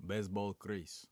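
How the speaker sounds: slow "Baseball Chris" in a foreign accent; drawn-out foreign-accented reading; accent replay. Shown as a demonstration. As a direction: repeat it slowly with a Russian-like accent. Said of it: "read the whole sentence in an accent".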